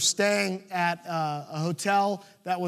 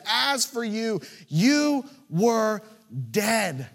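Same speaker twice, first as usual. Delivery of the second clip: emphatic quote; 3 semitones higher, 4 dB louder, much slower than usual. Acted. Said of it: "He says".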